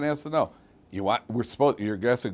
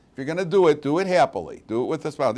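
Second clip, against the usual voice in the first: the mother's saying, higher and louder; imitating a nagging mother; 4 semitones higher, 4 dB louder, faster than usual. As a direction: mimic mom pressing the point. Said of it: "Our mothers say that all the time".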